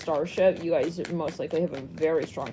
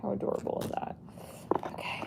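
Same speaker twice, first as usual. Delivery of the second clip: whispering; 10 dB quieter, faster than usual. Real, not acted. Cooing over cute deck.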